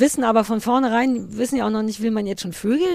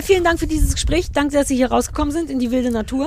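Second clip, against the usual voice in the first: wind on mic; 4 semitones higher than usual. Real, not acted. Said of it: "entschuldigen Sie die Windgeräusche".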